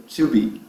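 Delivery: "to be" as chew-BEE, T softened; teacher's model "to be", tchu-bee; correct pronunciation. Shown as a demonstration. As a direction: say "to be" carefully with a "tchu" start. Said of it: "a pronúncia mais correta é".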